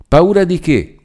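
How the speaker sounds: sweet, high-pitched reassurance; lightly voiced gentle woman. A narrator's reading. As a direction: soothe someone who is afraid. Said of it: "diceva quella voce soave".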